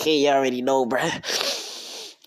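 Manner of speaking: loud, knowing chuckle through the words; laughing aside. Real, not acted. Storyteller joking about the character's crush, laughing aside. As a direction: let a real laugh spill into it.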